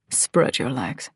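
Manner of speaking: slow, low, hushed male character; snarled command, deep and drawn out. A narrator's reading. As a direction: drop it into a slow, quiet snarl. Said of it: "he snarls into my mouth".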